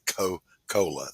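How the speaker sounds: "Co-, cola" with clipped Southern Co-; Southern Coca-Cola. Shown as a demonstration. Host showing how Southerners say "Co-, cola". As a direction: say "Co-, cola" with a quick Southern "Co-" and a long "cola". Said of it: "notice how I said that".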